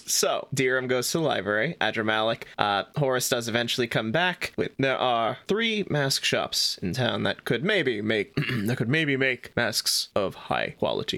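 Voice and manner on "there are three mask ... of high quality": slow, lightly voiced demon. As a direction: talk slowly like a demon. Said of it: "talking like a demon".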